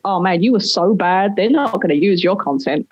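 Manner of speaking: low, mildly mocking voice of self-doubt; self-critical brain. Speaker's own brain putting them down, lightly acted critic. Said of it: "my brain is like".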